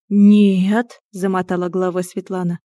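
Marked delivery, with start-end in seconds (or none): 0.1-1.0 firm no. Acted. Vehemently shaking her head.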